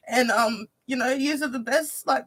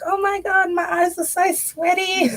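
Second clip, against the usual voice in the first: mock exclaim; 7 semitones higher, 4 dB louder than usual. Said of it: "And I'm like".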